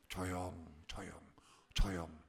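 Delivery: low, soft, hushing; mock hush. Shown as a demonstration. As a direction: hush the room like a quiet-time leader. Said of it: "Quiet time".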